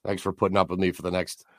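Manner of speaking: losing his voice, hoarse and strained; croaky sick voice. Real, not acted. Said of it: "I still sound like absolute ass".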